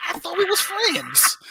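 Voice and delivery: high, loud, drawn-out fake betrayal; mock hurt. Friend feeling betrayed by the alarm, mock hurt. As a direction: ham up the wounded friend, stretching it out slowly.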